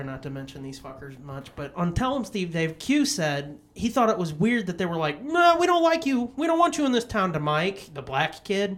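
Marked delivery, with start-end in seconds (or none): 5.2-7.3 louder, higher mock-bully voice; retold bullies' rejection. Bullies telling Mike to leave town, hostile. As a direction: imitate bullies running a kid off.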